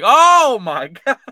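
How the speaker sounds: high, loud, slowed-down "Oh my God" breaking into a laugh; shocked laugh. Retold or imitated. Watching the kicker land hard on his ankle, a shocked laughing cry. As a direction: gasp it out, half laughing in disbelief. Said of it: "I was like".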